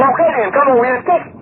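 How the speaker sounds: usual speaking voice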